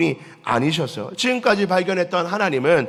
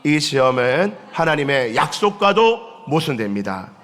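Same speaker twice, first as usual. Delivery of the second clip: slow unison recitation; congregation reading. Real, not acted. Pastor leading the congregation's reading, slow recitation. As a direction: read it slowly together. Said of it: "시작".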